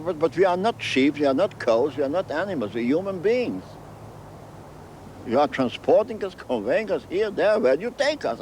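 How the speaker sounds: re-enacted indignant protest; retold protest. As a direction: plead the case point by point. Retold protest to ship's commandant.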